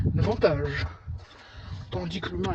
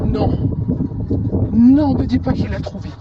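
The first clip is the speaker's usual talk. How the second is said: scared horror game streamer; 2 semitones higher, 6 dB louder than usual. Real, not acted. Pursuer found hiding cat.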